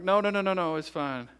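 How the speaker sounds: high quick start, dropping to settle; retold reassurance. Father retelling how he reassured his son, hasty and soothing. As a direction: brush the worry away, lightly acted.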